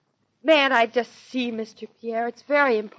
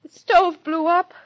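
high, loud blurted confession; exclaiming; 6 semitones higher, 5 dB louder than usual. Acted. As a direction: blurt it out in a panic. Blurting out the disaster.

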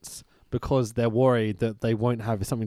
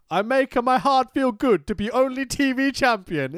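fake Russian accent; 10 semitones higher, 4 dB louder than usual. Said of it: "He says".

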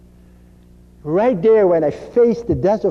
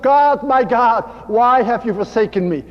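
raised, anguished plea, mildly acted; crying out; 2 semitones higher than usual. Jesus crying to God from the cross, raised plea. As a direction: cry upward, drawing out the first words. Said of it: "And he cried out".

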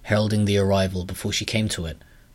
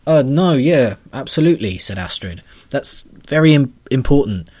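higher and louder, stumbling to agree; flustered heroine; 5 semitones higher, 7 dB louder than usual. Acted. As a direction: backpedal awkwardly, over-agreeing. Astrid backpedalling awkwardly.

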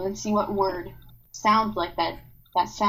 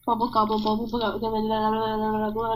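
tongue twister dissolving into turkey babble. Shown as a demonstration. Sister demonstrates a tongue twister exercise, turkey-like babble. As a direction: repeat it until it blurs into gobbling babble. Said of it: "Now you sound like a turkey".

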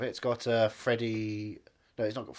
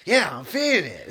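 laughing; 4 semitones higher, 6 dB louder than usual. Real, not acted. Laughs while speaking.

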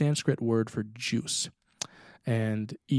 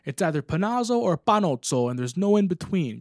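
louder, raised, firm no-nonsense answer; emphatic insistence; 7 semitones higher, 5 dB louder than usual. Retold or imitated. Answering shipmates about his surname, firmly and loudly. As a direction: lay it down like the final word.

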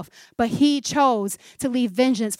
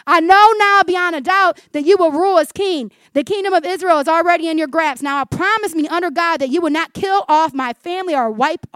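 impassioned reading; 5 semitones higher, 7 dB louder than usual. Acted. Acts Saul's plea to David.

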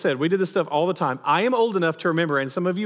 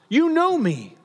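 yelling over crowds; 9 semitones higher, slower than usual. Acted. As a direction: shout it over a packed temple. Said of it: "yelling over the crowds".

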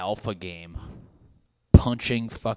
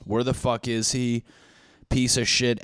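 mildly irritated, pushed delivery; mock anger; 3 semitones higher, 3 dB louder than usual. Friends angry that someone went missing, mild mock anger. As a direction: grumble it with a touch of anger. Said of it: "anger, anger, anger".

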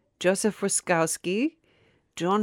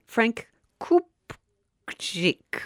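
whispered, slow and ominous; spooky whisper; 4 semitones higher, much slower than usual. Pretend. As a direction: hush it like another victim is coming. Dark story of dead husbands.

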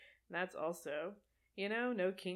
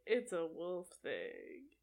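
slow mock Jacob line; slower than usual. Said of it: "that line of him saying".

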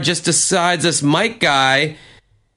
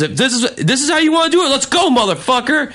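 much higher, fast, imitating a fight challenge; mock fight challenge; 11 semitones higher, faster than usual. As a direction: rush out a mock dare to fight. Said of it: "He goes".

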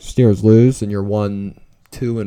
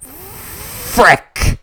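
frustrated curse; 8 semitones higher than usual. Real, not acted. Fan curses at a touchback.

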